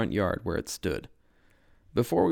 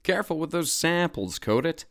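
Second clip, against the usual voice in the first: yelling; 8 semitones higher than usual. A narrator's reading. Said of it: "I yelled".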